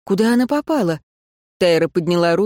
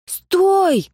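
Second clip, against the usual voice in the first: shout; 12 semitones higher than usual. Acted. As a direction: yell at her to stop running. Rian chasing her, shouting.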